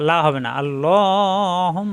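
slow আল্লাহুম ending in a long hummed ম; slow আল্লাহুম with a long nasal ম at the end; ghunna demo. Shown as a demonstration. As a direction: draw out আল্লাহুম and let the final ম ring through the nose. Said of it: "গুন্না".

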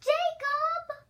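high, loud call. Acted. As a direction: call him over the room. Calling out to a sim.

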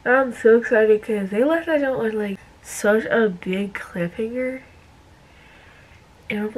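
talking while wiping lips; cotton pad on lips. Real, not acted. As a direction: lips partly covered. Seen 0: Cotton pad pressed and rubbed on lips throughout the words.

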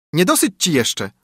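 taunt. A narrator's reading. Sparrow taunts carter.

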